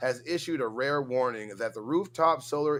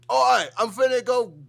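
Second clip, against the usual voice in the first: much higher, louder Aussie caricature; mock Australian accent; 11 semitones higher, 7 dB louder than usual. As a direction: ham up a rowdy Australian thug. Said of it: "how the fuck you guys talk".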